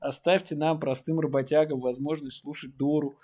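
half-joking protest plea; mock plea. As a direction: demand it like a wronged simple worker, half joking. Mock working-class plea.

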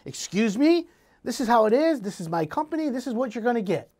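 lightly voiced curt brush-off; a hint of a snippy builder; snippy contractor. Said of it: "he gets really snippy with you".

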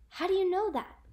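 high, loud amazed question; impressed. A narrator's reading. Carlos to Kesha about her knowledge, impressed. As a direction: ask it in open wonder.

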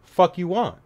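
mock tough guy barking at a stranger; acting tough. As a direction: put on a hard-man front to hide fear. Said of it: "I have to act tough".

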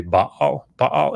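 Baal read the Hebrew way, "bah-al", rising; Baal as two syllables, Hebrew style. Shown as a demonstration. Scholar giving the Hebrew pronunciation of the name. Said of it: "the way that you would read that in Hebrew".

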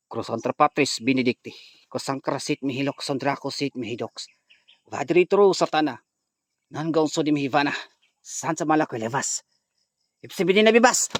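chanted Latin exorcism prayer; incantation. Acted. Vlogger reciting exorcism prayer at possessed woman, chanting. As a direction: intone it like a priest casting out demons.

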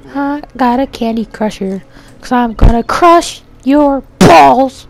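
high, slow hammed-up villain gloat; mock villain voice. Gloats over new weapon.

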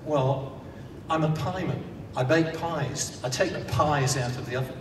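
lightly voiced pieman, patiently explaining the obvious; a hint of a weary pie seller, spelling it all out; pieman's voice. Pieman answering Simple Simon's question, lightly voiced and patient. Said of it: "And the pieman said".

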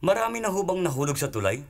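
high-pitched, amused questioning; acting out a smirking engineer; grinning engineer. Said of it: "ngingising-ngising, tinanong yung chairman".

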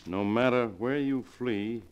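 slow, menacing read of a threat; ominous letter reading. Acted. Servant reading the killer's letter to Morgan, slow and ominous. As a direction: draw out each line like a warning.

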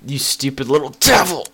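breathy whispered taunt at the little devil. Pretend. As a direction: hiss the insult under your breath. Taunting game character.

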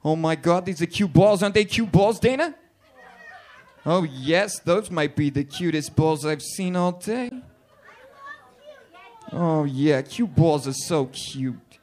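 lightly voiced excited women gushing. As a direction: gush like the girls at the checkpoint. Women gushing over balls.

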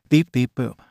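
crisp affirmative robot beeping; robot beeps. Acted. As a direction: beep like a cheerful robot saying yes. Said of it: "He beeped in affirmation".

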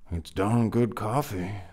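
lilting, enticing offer. A narrator's reading. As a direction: tempt a stubborn friend. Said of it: "Henry said enticingly".

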